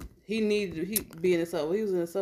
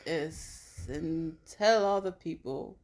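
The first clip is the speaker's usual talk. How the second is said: lightly rich voice; much slower than usual. Pretend. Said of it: "that's my uppity rich voice".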